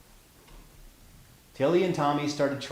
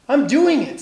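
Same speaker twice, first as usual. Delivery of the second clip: excited; 9 semitones higher, 6 dB louder than usual. A narrator's reading. Tilly breaking free.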